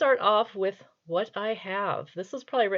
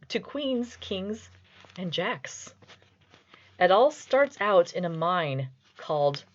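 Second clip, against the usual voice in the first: very serious reading. Shown as a demonstration. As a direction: read a child's rhyme as if it were grand poetry. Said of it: "I'm going to do this as a very serious reading".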